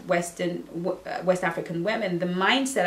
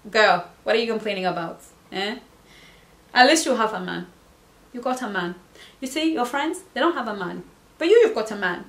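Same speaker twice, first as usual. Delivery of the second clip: teasing Nigerian accent, only lightly voiced; made-up Nigerian accent; 2 semitones higher, faster than usual. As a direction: playfully fake a Nigerian boyfriend's accent. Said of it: "Okay, I'm making up the accent".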